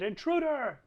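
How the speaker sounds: high-pitched cultist's alarm cry, not full volume; mock yell. Game master voices a cultist spotting Mouse, mock yell. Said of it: "One of them has yelled".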